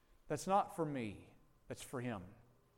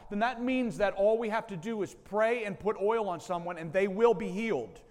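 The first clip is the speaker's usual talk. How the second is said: ordinary delivery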